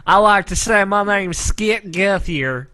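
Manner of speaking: lazy Southern redneck drawl, lightly done; redneck accent. Acted. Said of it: "A redneck accent".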